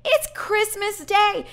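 high, drawn-out mock yell; imitated yelling. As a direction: call it through a closed door. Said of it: "She's yelling through the door".

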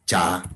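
"cha" with a ch onset; demonstrated cha sound. Shown as a demonstration. Teacher models a sound for learners, "cha" with ch. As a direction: say "cha", tongue stopping before the hiss. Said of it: "Vamos a decir".

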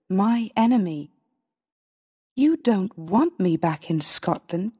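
hurt, accusing queen pleading with her son; mild anger, key words stretched and pressed; angry reproach. Acted. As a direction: reproach him, pitch lifting on the accusations. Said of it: "Sometimes I get very angry".

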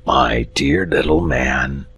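slow, soft and solemn dragon; understated solemn dragon. Acted. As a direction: lay it down gravely. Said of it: "said the dragon solemnly".

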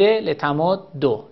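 لتمدو slow, with doubled dal and final o; assimilated, damma ending. Shown as a demonstration. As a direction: draw out لتمدو, closing on -ddo. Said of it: "ضمه هم اگه این ضمه باشه". (لتمدو کشیده، با دال مشدد و ضمه)

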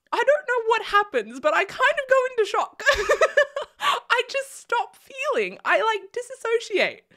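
laughing in shock. Real, not acted. Laughing about going into shock.

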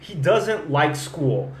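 He doesn't like school. said slowly with doesn't stressed; slow model sentence. Shown as a demonstration. Teacher modeling the sentence slowly for students. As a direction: spell out each word for the learner. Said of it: "Você vai pegar eu falando essa frase aqui".

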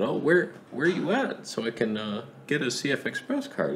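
fake friendly. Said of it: "He found out".

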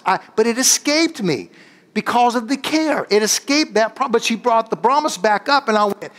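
high-pitched fervent preaching. Acted. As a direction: preach it up to the congregation. Preaching sermon.

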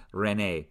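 René with both E's held long, "ray-nay"; long vowels. Shown as a demonstration. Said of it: "they would be long vowels".

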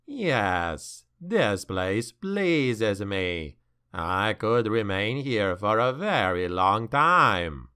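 low, very slow, savouring demon; slow gloating demon. Acted. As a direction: relish every word, deep and slow. Demon chuckled.

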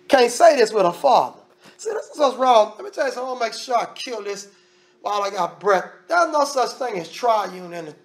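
usual speaking voice

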